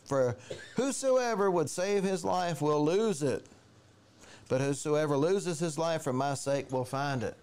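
slow, weighty Bible reading; scripture reading. Acted. Preacher reading Matthew to the church, slow and weighty. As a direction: lay the verse down slowly.

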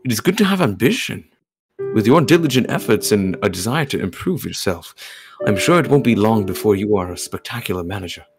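measured, formal character voice; polite perfectionist character. Acted. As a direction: read as a composed perfectionist musing aloud. Reads game character lines.

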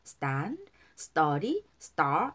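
"stand", "study", "star" with tense unaspirated t; tense st sound. Shown as a demonstration. Teacher demonstrates, "stand, study, star" with tense t after s. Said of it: "에스티는 뜨 발음 나요".

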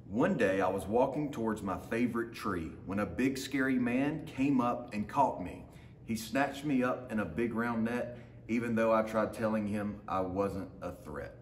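lively storybook reading in the dog's voice; reading to children. A narrator's reading. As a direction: read it like a picture book for a class. Teacher reads picture book aloud.

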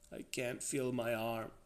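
a touch of frightened whimpering; small, mildly fearful voice. A narrator's reading. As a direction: whimper it weakly, understated. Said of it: "Danny whimpered".

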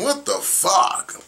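high, slow, unvoiced what the fuck; breathy disbelief. Real, not acted. Stunned by fans crying over trash talk, breathless disbelief.

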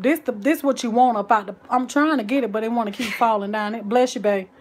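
ordinary delivery

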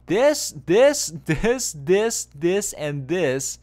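laughing disbelief. Real, not acted. Coach pointing at mistake after mistake.

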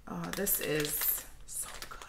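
slow, hushed, blissful murmur; savoring delicious food. Real, not acted. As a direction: sink into the pleasure of it. Savoring the scent slowly.

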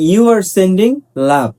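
slow, spaced-out drill sentences. Shown as a demonstration. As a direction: drill each word slowly for the class. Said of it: "teacher drills example". (ধীরে ধীরে অনুশীলন বাক্য)

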